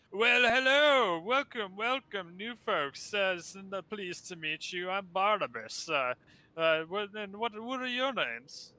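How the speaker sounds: high, grand, theatrical ghostly host; flaming skull voice. Acted. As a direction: play a lofty talking skull, drawn out.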